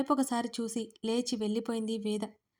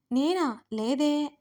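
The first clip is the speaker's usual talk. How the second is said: higher, lightly voiced innocent denial; innocently; 4 semitones higher, 5 dB louder, much slower than usual. A narrator's reading. Girl feigns innocence to the man asking why she cries, innocently. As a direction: play dumb, a little lifted. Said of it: "అంది అమాయకంగా".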